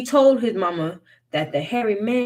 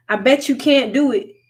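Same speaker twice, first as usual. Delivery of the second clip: taunting; 6 semitones higher, 7 dB louder than usual. A narrator's reading. Wiley taunting the hairy man.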